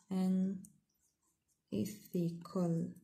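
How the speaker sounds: "unethical" very slow, syllable by syllable; teacher demonstrating word stress; stress on the second syllable. Shown as a demonstration. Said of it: "في لا دوزيام سيلاب لي جا stress".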